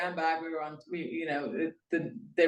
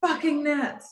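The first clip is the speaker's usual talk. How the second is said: retold outburst; 9 semitones higher, 3 dB louder, slower than usual. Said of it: "And I'm like".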